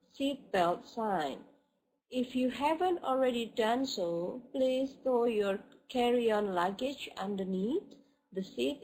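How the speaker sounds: clear, careful teacher demo of the flight announcement; model reading. Shown as a demonstration. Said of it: "I'll try to read for you so you can listen to, uh, the pronunciation".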